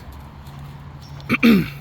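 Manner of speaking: clearing a dusty throat; quick cough to clear dust. Real, not acted. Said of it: "I think I got some dust in my throat".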